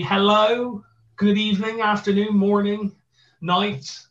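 hammed-up gruff Bristolian greeting; Bristol accent. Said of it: "gruff Bristolian voice".

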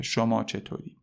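شما set apart with a falling line; stress on شما. Shown as a demonstration. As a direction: lean on شما to mark the polite you. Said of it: "تفاوت تو و شما".

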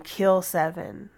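slow, fading to whispered command; slow ghost voice fading to a whisper; ghostly voice. Retold or imitated. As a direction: let it fade into a whisper from the grave. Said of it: "heard a voice coming from the grave saying".

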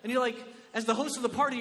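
usual speaking voice

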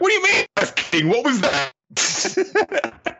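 high, far-off-voiced, drawn-out indignant squeal; mock flustered outcry. Yuiga demanding what the kiss meant, high and flustered.

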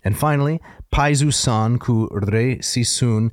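Greek hexameter recited rhythmically; rolling dactylic verse. Shown as a demonstration. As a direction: chant the ancient Greek verse in its meter. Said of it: "they go something like this".

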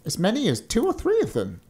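high thin-giant voice. A narrator's reading. Thin giant counting heirs for his challenger, high character voice. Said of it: "said the other".

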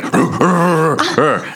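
high-pitched eager animal noises; playful high rrr of a perked-up warg; excited warg. Retold or imitated. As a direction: imitate an excited beast with rolling high growls. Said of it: "Precious's ears pop up again, and he's like".

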